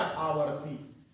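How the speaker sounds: slow, stretched आवर्ती with long आ; drawn-out answer. Shown as a demonstration. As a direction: draw out आवर्ती like a teacher prompting the class. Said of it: "ये क्या हो जाएगा?".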